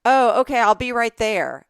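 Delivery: a hint of a breezy stranger texting; scammer's fake text. Friend imitating a scam text to her cohost, mildly breezy. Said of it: "they do it as if it's".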